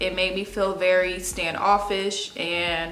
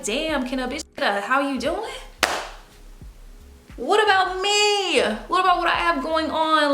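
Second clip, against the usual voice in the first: high, pleading, fed up; wanting someone to ask about her; exasperated plea; 9 semitones higher than usual. Retold or imitated. Venting to friends who never ask, high and exasperated.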